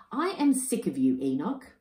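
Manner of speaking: a hint of a nagging mother emu; fed-up wife. Wife scolding her lazy husband, mildly cross.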